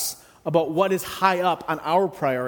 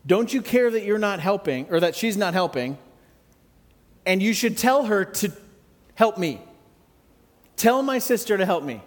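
voicing Martha; 3 semitones higher than usual. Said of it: "She goes and tells Jesus".

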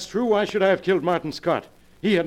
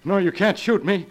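higher, panicked begging for his life; terrified pleading; 7 semitones higher than usual. Acted. Jason begging Gerald not to shoot, in terror. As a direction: plead with the man holding the gun.

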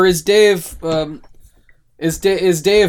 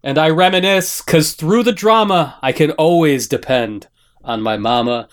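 recited song lyrics. Acted. Host opens the podcast with a rapper's lyrics, spoken tribute. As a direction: declaim the lyrics as a heartfelt ode.

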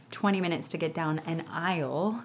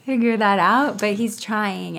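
usual speaking voice

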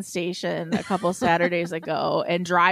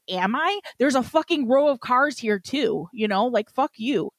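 retold indignant comeback, pitched up; enraged; 5 semitones higher than usual. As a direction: argue back at the cop, reliving the rage. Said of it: "I'm just, like, enraged".

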